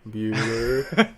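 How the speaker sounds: imitated monotone roll-call; monotone impression. Host quoting a droning teacher, monotone. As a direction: call the name in a dull monotone, pausing between. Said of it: "with that monotone voice".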